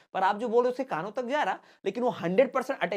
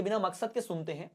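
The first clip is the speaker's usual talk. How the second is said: ordinary talk, nothing marked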